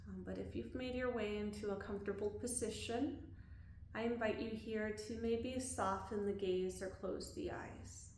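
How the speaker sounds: calm body-scan guidance with long pauses; unhurried, leaving room to breathe between phrases; guided meditation. Real, not acted. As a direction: guide them gently through a body scan.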